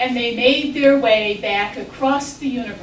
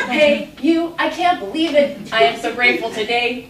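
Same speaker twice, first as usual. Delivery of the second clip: grateful lion; 6 dB louder than usual. Acted. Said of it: "The lion said".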